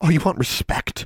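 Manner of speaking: high, hissed retort. A young lady retorts after being scolded for disrespect, hissing. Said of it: "she hissed".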